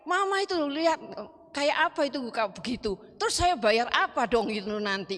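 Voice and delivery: mildly acted scolding, starting high; retold grumble, settling as it goes; child's grumbling. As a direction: imitate a child nagging in complaint.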